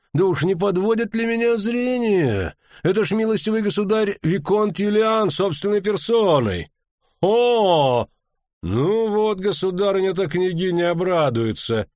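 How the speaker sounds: high-pitched, exclaiming astonishment; amazed recognition. A narrator's reading. Baron recognising the viscount in person, amazed exclamation. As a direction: marvel aloud in a high voice.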